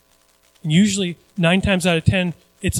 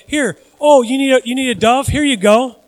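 higher, lively mimicked vendor; eager temple seller; 6 semitones higher than usual. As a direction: pitch it up like a pushy seller. Mimics temple sellers pushing doves.

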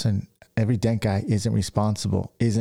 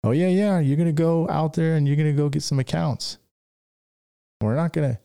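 imitating his mom; 7 semitones higher than usual. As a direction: tease the shy son a little as you push him out. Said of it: "That's how my mom was with me".

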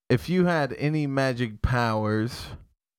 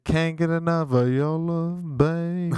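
A soul singer's voice. Pretend. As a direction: croon it like a soul singer. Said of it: "how long are you gonna talk like that for?".

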